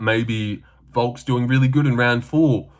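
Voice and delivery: ordinary delivery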